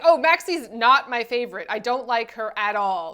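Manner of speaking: loud, pointed fake disavowal that eases off; put-on insistent dismissal; mock denial. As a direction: pretend firmly that you dislike her. Pretends to dislike her favorite.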